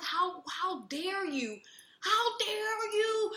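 indignant. Retold or imitated. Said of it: "and I was like".

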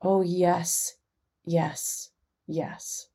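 sorrowful yes, fading to a whisper; fading tearful yes. Retold or imitated. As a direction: let it dissolve into a whispered sob. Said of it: "she's crying even harder".

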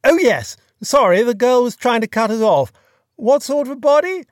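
loud, high Hello? Hello?; calling into phone. A narrator's reading. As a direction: shout down a failing line. Peter calling, line cutting off.

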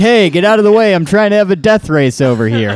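loud, goofy car horn noises; silly clown. Pretend. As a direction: honk like a cartoon race driver. Host mimics car horns, racing.

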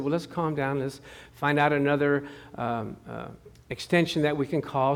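soft, gentle and calm; calm reassurance. Retold or imitated. Preacher calming the robbed neighbor, soft. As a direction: settle her down gently. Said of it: "And I said".

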